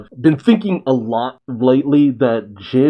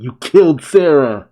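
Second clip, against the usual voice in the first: louder accusing outcry; crying out; 3 semitones higher, 6 dB louder than usual. Acted. Holy crying out at her sister's killer, loud accusing outcry. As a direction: fling the accusation at him. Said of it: "Holy cries out".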